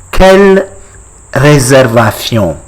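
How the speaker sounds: "Quelle réservation" in French with a Spanish-like th in the ending; French with Spanish accent. Shown as a demonstration. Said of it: "I'm getting Spanish accent".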